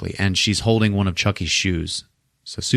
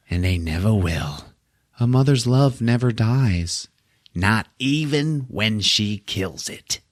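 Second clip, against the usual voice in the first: Chucky; 3 dB quieter, slower than usual. Retold or imitated. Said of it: "And then Chucky goes".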